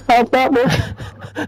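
slow, high mocking drawl; slow drawn-out mock.

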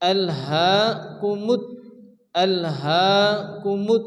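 long "হা", then firm "কুমুত"; teacher spelling out "আল হা কুমুত"; doubled consonant demo. Shown as a demonstration. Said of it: "দুবার উচ্চারণ করে পড়তে হয়".

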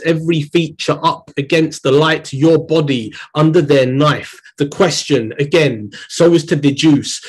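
deliberate spoken-word poetry delivery; poem reading. Acted. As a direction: read it as a performance poem, weighing each line. Reads the poem aloud.

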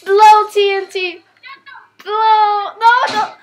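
loud, slow excited urging. Real, not acted. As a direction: cheer it on loudly. Urging TNT to explode.

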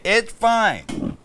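high-pitched mock quote of a dismissive reply; mocking imitation. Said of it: "What'd you say?".

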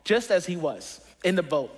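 measured, emphatic Bible reading to a congregation; preacher reading a Gospel story aloud; scripture reading. Acted. Reads Bible passage aloud.

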